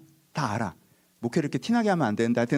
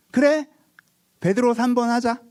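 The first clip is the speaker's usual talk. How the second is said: 신난 음모; 10 semitones higher, 4 dB louder than usual. Retold or imitated. 제자들의 뒷담화 흉내.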